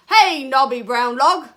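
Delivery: high, very loud hail; brash storybook frog shout. Acted. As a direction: holler at a stranger, drawn out. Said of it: "shouted the wide-mouthed frog".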